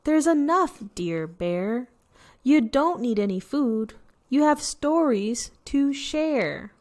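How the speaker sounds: a hint of a squeaking mouse; squeaky mouse. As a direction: comfort the bear gently as a tiny mouse. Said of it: "Mouse squeaks".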